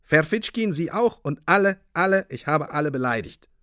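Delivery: loud, high, urgent outpouring; worked-up insistent contrition; agitated apology. A narrator's reading. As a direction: pour it out to the whole room. Narrator's agitated apology to everyone.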